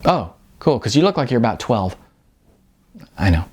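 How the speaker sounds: put-on a young man teasing his younger friend; teasing Sean.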